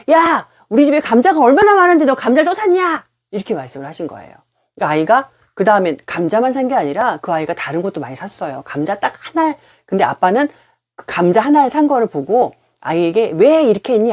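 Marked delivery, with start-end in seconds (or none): 0.1-3.0 loud, much higher scolding shout; imitating angry yell. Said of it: "첫 마디가 보자마자 어떤 말이었냐면". 13.3-14.1 higher, louder reproachful question; mock scolding. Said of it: "아이를 비난을 한 거죠".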